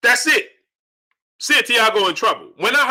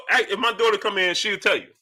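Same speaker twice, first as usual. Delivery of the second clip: ordinary talk, nothing marked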